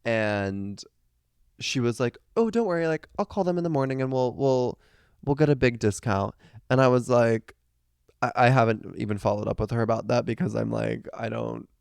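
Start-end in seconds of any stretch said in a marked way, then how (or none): 2.4-6.3 imitating a friend's sweet, higher reassuring voice; sweet reassurance. Imitating her friend soothing her about the hotel, sweetly higher. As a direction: lightly mimic her sugary promise. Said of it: "the way she says things is, like, so sweet".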